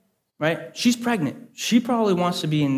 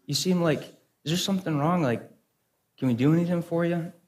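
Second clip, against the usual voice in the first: gentle concern; 3 semitones higher than usual. Retold or imitated. Dad asking the angry owner if he's okay, gentle concern. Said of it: "with no anger in his eyes".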